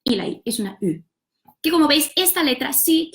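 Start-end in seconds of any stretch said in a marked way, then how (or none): 0.8-1.0 French U, halfway from U to I. Shown as a demonstration. Teacher showing the real French vowel, U shaded toward I. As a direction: sound a low-pitched French U, between U and I. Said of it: "algo que está entre la U".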